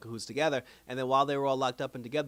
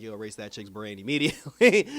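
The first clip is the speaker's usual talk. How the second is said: bossy order; 3 semitones lower, 10 dB louder than usual. Retold or imitated. Kang ordering a memory wipe.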